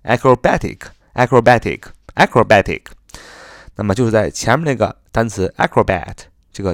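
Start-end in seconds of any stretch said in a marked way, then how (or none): 0.0-2.8 acrobatic with -BA- stressed, a touch louder; loud classroom stress drill on acrobatic; stress near the end. Shown as a demonstration. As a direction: push the stress toward the back of acrobatic. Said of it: "这个重音呢是在后边".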